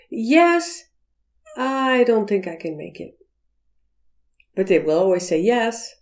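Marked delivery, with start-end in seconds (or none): 0.1-3.1 a yes that really means no; a polite yes, then a quieter refusal; reluctant yes. Shown as a demonstration. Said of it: "the word yes has about five meanings".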